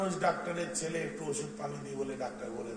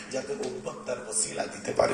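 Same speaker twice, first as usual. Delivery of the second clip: usual speaking voice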